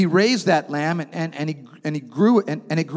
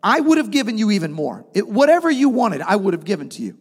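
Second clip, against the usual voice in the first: prophet's rebuke; 5 semitones higher, 3 dB louder than usual. Retold or imitated. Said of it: "he says".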